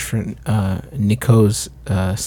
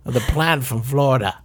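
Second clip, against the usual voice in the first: put-on French accent. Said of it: "Where is this accent going?".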